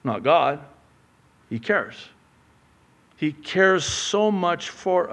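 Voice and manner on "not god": ordinary talk, nothing marked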